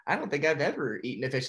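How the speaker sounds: quick, giggling Dory line; laughing through it. Retold or imitated. Dory telling the sharks, laughing quickly. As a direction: rush it out while laughing. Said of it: "And Dory's like".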